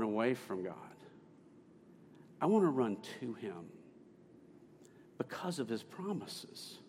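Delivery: a hint of her voice, measured and unhurried; Miss Penner. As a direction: quote her earnestly, with long pauses. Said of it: "I'm doing her voice, aren't I?".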